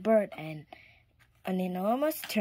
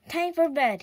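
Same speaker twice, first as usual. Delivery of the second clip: a higher, louder mock yawny call; sleepy yawn; 8 semitones higher, 6 dB louder than usual. A narrator's reading. The tired farmer announcing bedtime after the big pull. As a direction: stretch it out through a yawn. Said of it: "he said, yawning".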